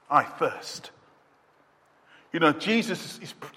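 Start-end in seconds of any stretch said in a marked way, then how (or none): 0.1-0.9 voiced, a bit louder cry of thirst. Jesus on the cross crying his thirst aloud. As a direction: push the second one out as a cry.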